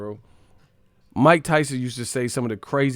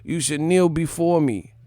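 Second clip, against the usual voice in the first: Tyson quote; 4 semitones higher than usual. Retold or imitated. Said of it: "he said".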